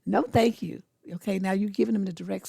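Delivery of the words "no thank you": pointed refusal with a little attitude. Shown as a demonstration. Woman refusing a persistent man with a direct stare, a bit of attitude. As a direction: turn him down again, with some edge. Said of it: "say it with a little bit of an attitude".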